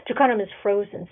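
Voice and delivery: ordinary delivery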